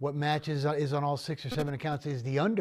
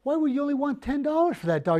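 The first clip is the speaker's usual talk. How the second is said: high, disbelieving question; can't believe the price; baffled buyer; 9 semitones higher than usual. Retold or imitated. Buyer asks the seller about the cheap dog, high and disbelieving.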